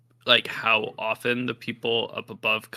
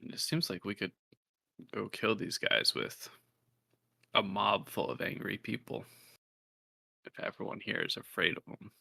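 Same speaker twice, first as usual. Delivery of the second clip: hushed, much softer aside; whispering; 8 dB quieter than usual. Acted. Player confiding a plan to Hubert, whispering. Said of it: "I'm whispering that to Hubert".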